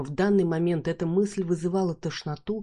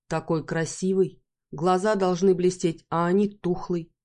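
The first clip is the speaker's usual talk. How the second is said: Бархан, медленно, с акцентом. Acted.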